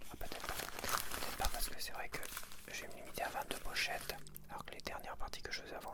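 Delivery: ordinary talk, nothing marked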